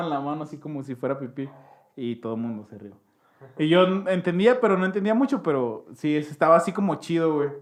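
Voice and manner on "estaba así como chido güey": ordinary talk, nothing marked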